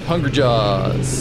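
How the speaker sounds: slow, drawn-out battle roar, understated; mock angry roar, stretched out. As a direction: roar the attack name slowly, at modest volume. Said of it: "going to roar out angrily".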